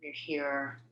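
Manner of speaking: unhurried meditation voice with long pauses between phrases; guided meditation. Acted. Host leading her healing group in a meditation on light, guided meditation. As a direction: guide listeners gently, phrase by phrase, leaving space.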